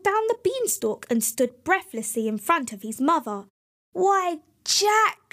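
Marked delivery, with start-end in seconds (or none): 3.9-5.3 high, louder surprised exclamation; delighted cry. A narrator's reading. Mother seeing Jack return with the hen, high delighted cry. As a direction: gasp with joy at the sight. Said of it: "she cried".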